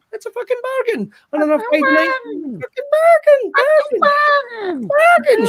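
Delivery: hyping it. Acted. Pushing gig tickets to the audience, mock market-trader hype.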